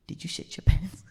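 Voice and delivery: hushed, breath-only asking; audience's discreet question. Acted. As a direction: ask it confidentially, voicing the audience. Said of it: "Y'all are like".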